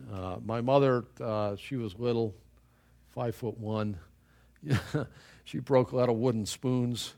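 ordinary talk

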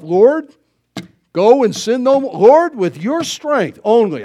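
loud, earnest plea to the Lord; resolute prayer. Retold or imitated. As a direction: declare it with full force, calling on God.

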